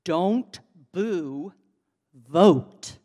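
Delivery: forceful rally call, VOTE hit hardest; loud, clear call. Retold or imitated. Speaker at the march calling to the booing crowd, loud and clear. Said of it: "in a loud, clear voice".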